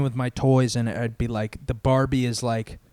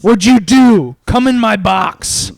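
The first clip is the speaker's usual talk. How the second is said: loud, high, hammed-up summons; hammed-up priest; 9 semitones higher, 12 dB louder, slower than usual. Priest ordering a child into the confession box, hammed-up shout. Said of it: "the priest is like".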